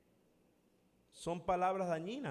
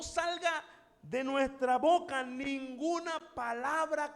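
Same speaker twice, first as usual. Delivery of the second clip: raised, emphatic preacher's voice; fervent preaching; 5 semitones higher than usual. Real, not acted. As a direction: preach it firmly to the whole congregation. Declaims the verse to congregation.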